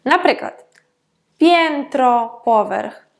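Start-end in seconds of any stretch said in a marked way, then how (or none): 1.4-2.4 п'єнтро with a clear EN in the first syllable; audible nasal "en". Shown as a demonstration. Teacher giving an example of nasal vowels, п'єнтро with clear EN. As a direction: sound the EN fully in п'єнтро. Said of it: "ми можемо чути як он".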